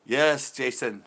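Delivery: a lighter hint of the put-on Asian accent; mock Asian accent. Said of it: "talking like an Asian man".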